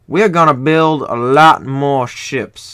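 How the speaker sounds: drawn-out Southern US accent. Real, not acted. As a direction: slip into a slow Southern drawl. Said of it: "I just got really southern there".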